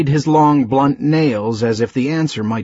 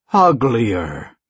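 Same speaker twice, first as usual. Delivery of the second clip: growled. Acted. Beast answering his captive with a mild growl. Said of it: "he growled".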